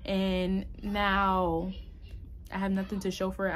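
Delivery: hammed-up blaming whine; mock excuse-maker. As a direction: pile up the self-pity, then rush the end. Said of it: "Like, I can easily be like".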